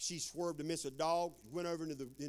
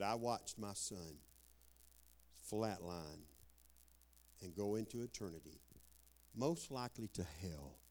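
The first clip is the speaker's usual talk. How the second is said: grieving father; 5 semitones lower, 5 dB quieter than usual. Retold or imitated. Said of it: "boohooing, sobbing".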